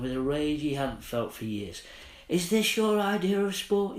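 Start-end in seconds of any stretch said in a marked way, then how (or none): 2.3-4.0 high, loud, furious yell at the riders; furious shout. Acted. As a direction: roar it at the men on horses. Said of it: "he shouted, he yelled".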